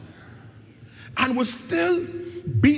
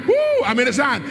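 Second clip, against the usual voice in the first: excited shout; 3 semitones higher, 3 dB louder, much faster than usual. Shown as a demonstration. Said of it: "Tell your neighbor you're in his hand".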